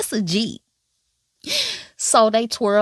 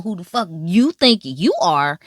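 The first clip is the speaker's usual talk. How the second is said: sassy challenge, mildly voiced; full of attitude; 5 dB louder than usual. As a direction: throw it out with attitude. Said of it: "with all the attitude".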